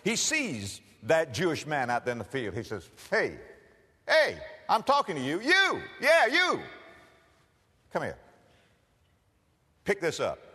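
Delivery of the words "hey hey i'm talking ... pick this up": bossy soldier. Acted. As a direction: order him around like an arrogant soldier. Soldier orders the Jewish farmer.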